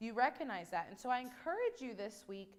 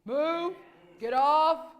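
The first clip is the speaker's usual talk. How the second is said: loud barked command, higher; imitating a firm command; 5 semitones higher, 14 dB louder, much slower than usual. Imitating husband ordering dogs off bed, loud. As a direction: bark it like the man of the house. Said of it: "say what you say, the way you say it".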